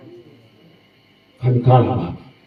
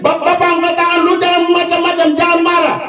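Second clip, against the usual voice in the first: raised, pleading-stern warning; lightly acted plea to his wife; retold warning to wife; 6 semitones higher than usual. Pastor warning his wife not to get angry, mock stern. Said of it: "saya bilang sama istri".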